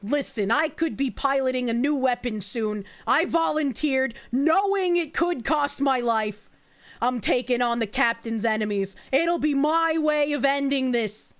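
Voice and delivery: a hint of a bitter fighter; simmering hatred, building to resolve; vengeful biker voice.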